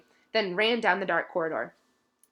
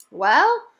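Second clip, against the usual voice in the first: higher, louder elf voice; elf, matter of fact; 6 semitones higher, 9 dB louder, slower than usual. A narrator's reading. Dobby explains to Harry as if obvious. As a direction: explain the obvious, eyes wide. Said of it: "as though this was obvious".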